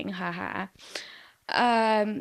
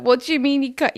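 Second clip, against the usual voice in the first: 1 outraged question; 7 semitones higher, 7 dB louder, faster than usual. Retold or imitated. Girlfriend's outraged question retold.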